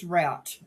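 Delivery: drawn-out "route" rhyming with "out"; "route" with the ow of "shout"; route as quoted. Retold or imitated. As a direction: say "route" slowly with an ow vowel. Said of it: "like root".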